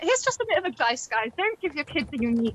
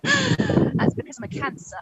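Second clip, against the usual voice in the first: high and slow, whiny excuse; mock star sign excuse; 11 semitones higher, slower than usual. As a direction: plead it like it explains everything. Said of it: "it would go like this".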